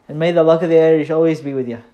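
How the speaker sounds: quick, loud, hammed-up Irish accent blessing; bad Irish accent. Vlogger wishing viewers Irish luck, in a bad Irish accent. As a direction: toss off a terrible Irish accent, fast. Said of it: "only thing I'm gonna say in an Irish accent, which was terrible".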